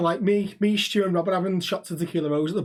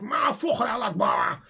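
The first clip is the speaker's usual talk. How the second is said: mock Scouse lad kicking off, starting high; knobhead Scouse; 5 semitones higher than usual. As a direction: put on an exaggerated Scouse accent, pitched up then dropping. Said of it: "Acting like pure knobhead Scouse".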